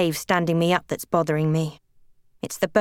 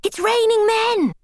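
very high, drawn-out wailing yell; friend's high-pitched singalong holler; yelled caterwaul. A narrator's reading. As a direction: belt it high and held, like drunken karaoke. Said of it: "Debs yells".

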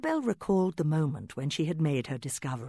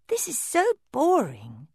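bored exclaim; 10 semitones higher, 4 dB louder than usual. Acted. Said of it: "she exclaimed".

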